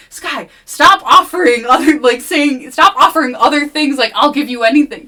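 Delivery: very loud, high scolding; exasperated yell. Retold or imitated. Player scolding Sky for offering anything, loud exasperated yell. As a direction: shout at her to stop. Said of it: "I'm like".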